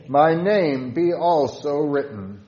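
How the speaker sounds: fervent loud recitation of a hymn prayer; fervent hymn reading. Shown as a demonstration. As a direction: call out to Jesus from the heart. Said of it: "With stanza five".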